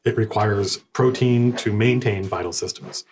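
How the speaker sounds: lightly voiced, uninflected ship computer; measured machine-like readout; non-inflected ship intelligence. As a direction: report it with little inflection. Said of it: "It's very kind of non-inflected".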